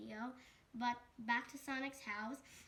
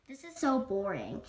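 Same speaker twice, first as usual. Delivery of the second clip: loud, lower grumpy complaint; stern sloth complaining; 3 semitones lower, 12 dB louder than usual. Acted. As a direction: blurt out the boredom like a grumpy sloth. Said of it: "the stern sloth said".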